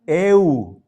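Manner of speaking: eu gliding from e into oo; diphthong sound. Shown as a demonstration. Teacher shows how the first upsilon sounds, drawn-out eu. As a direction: say eu drawn out as one glide. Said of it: "En el primer caso suena".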